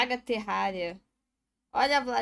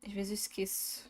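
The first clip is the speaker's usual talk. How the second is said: whispered aside; 5 dB quieter than usual. Real, not acted. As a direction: breathe it as a whisper. Quiet aside to herself.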